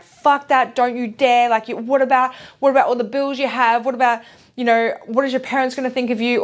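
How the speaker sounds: a snappy, doubting inner critic; harsh inner critic. Retold or imitated. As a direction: fire off the worries, rushing. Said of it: "the big voice is your inner critic".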